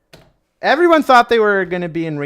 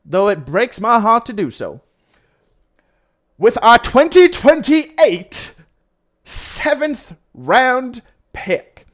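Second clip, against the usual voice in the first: put-on Texas oil baron accent; 4 semitones higher, 5 dB louder than usual. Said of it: "sound like a Texas oil baron".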